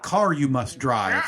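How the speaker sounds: lightly voiced Yoda, slow; a hint of Yoda, word order flipped; backwards speech. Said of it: "How does he sound?".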